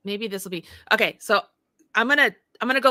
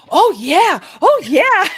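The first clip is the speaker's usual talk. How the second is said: imitating delight; 7 semitones higher, 11 dB louder, slower than usual. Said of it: "being like".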